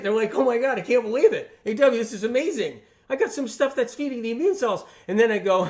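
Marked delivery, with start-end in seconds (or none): 0.3-4.8 higher, louder mock excitement; excited friends. Friends react to what's in their sandwich, mock excitement. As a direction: gush like thrilled friends, imitating them. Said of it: "they're, like, all excited".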